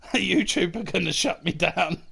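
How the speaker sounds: giggling through the line; laughing. Real, not acted. Streamer telling chat he'll be banned, laughing. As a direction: laugh it out, half panicked, half amused.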